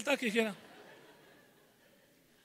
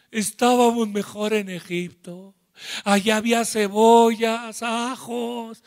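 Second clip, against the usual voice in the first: grumbling crowd. Acted. People complaining about Egypt.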